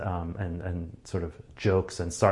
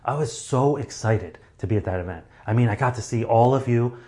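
exaggerated stage excitement; 2 semitones higher than usual. Shown as a demonstration. Speaker demonstrating stage-sized excited delivery. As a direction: play it big for a crowd. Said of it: "Whereas if I'm on stage, I would be like".

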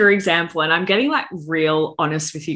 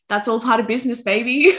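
put-on higher, sassy retort to the boyfriend; sassy boss energy; 5 semitones higher than usual. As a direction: flick the hair and own it. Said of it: "bad bitch energy".

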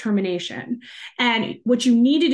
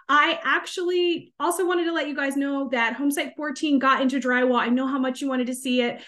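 lightly acted phone message, pitched up at first, easing to conversational; seasoned sales call. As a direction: play an experienced salesperson following up. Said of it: "a few more years down the line".

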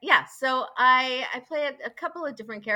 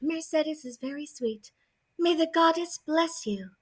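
sweet Mercedes voice; 3 semitones higher than usual. Acted. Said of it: "voices request for catchphrases".

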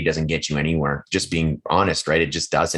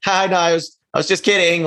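much higher-pitched mock protest; retold backpedaling; 11 semitones higher than usual. Guest retelling his joke to the builder, high-voiced backpedal. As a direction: back down in a high, pleading imitation.

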